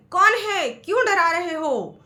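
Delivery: high, loud echoing call; the echo shouting back. A narrator's reading. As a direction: throw it back like the valley's echo. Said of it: "बाहर से भी आवाज आई".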